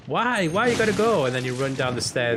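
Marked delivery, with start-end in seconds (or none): 0.1-1.3 high, pleading prince; mock Prince Charming. Prince Charming asking Cinderella why she's leaving, mock pleading. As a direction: plead after her in a raised, hammed-up voice.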